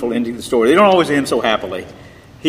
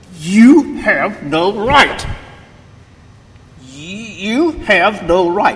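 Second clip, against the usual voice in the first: mock high, slow furious sputtering, words dragged out; 7 semitones higher, 3 dB louder than usual. Retelling a furious student's outburst at a lecture q&a, mock-angry sputtering. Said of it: "he sputtered".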